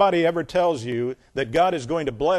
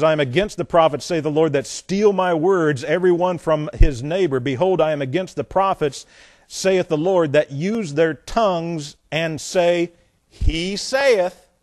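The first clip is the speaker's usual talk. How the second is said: emphatic, driving Bible reading; scripture reading; 4 dB louder than usual. Acted. Preacher reads the Lord's case against prophets, emphatic scripture reading. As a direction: declaim the rebuke phrase by phrase.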